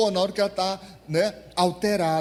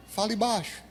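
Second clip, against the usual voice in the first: softer, telling someone to keep it down; hushed rebuke; 2 semitones higher, 6 dB quieter than usual. Retold or imitated. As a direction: shush them firmly. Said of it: "Já viu isso?".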